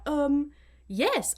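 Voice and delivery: put-on hesitant stab at a French accent; attempted French accent. Imitating a student in his French exam, attempted French accent. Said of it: "everything just in a French accent".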